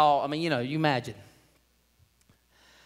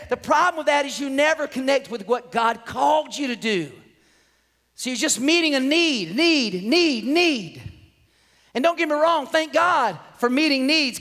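raised, emphatic preacher's delivery; preaching; 5 semitones higher than usual. Real, not acted. Preacher warns the church about needs-based ministry, preaching. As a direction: preach it with rising pitch on key words.

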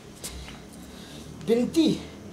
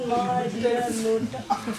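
imitating Binti; 4 semitones lower, 10 dB quieter, much slower than usual. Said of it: "बिनती दी की जुबान पर बस एक ही नाम".

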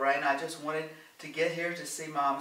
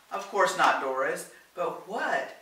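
higher, louder plea; pleading; 5 semitones higher, 7 dB louder than usual. A narrator's reading. Helen begs Doris for some way to act, pleading. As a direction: appeal to her, voice lifted. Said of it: "Helen pleaded".

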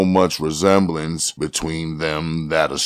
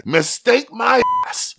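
high-pitched scornful outburst; irate cop's exclamation, more pitch than volume; angry roar. A narrator's reading. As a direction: throw it back, voice leaping up. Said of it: "the officer roared".

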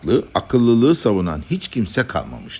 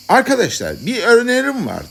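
raised-pitch call for attention; lightly voiced orator; 12 semitones higher than usual. One madman proposing to his comrades, calling out. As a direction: address the assembly.

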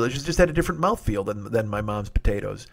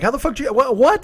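shrill, high, incredulous squeak; retold disbelief; 12 semitones higher, 6 dB louder than usual. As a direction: jump way up in pitch, unable to believe it. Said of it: "I'm like".

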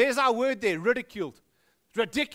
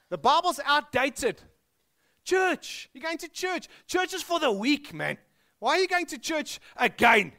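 mocking scoffer; 6 semitones higher, 4 dB louder than usual. Scoffing critics of churchgoers.

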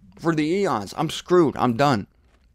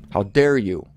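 How dare you said as a firm rebuke; indignant challenge; 5 semitones lower than usual. Acted. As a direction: rebuke the listener boldly.

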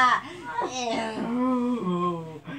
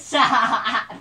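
being tickled; 4 dB louder than usual. Real, not acted. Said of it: "You're tickling me".

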